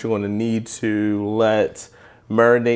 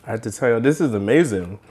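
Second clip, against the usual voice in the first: talking through a mouthful; words round a bite of chicken; mouth full. Real, not acted. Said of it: "Never talk with your mouth full".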